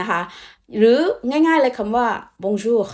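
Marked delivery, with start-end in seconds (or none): 2.4-2.9 "bonjour" with a strong airy R at the end; over-pronounced French R. Shown as a demonstration. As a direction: draw out "bonjour" into an exaggerated final R. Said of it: "คำว่า jour เยอะขนาดอีแม่".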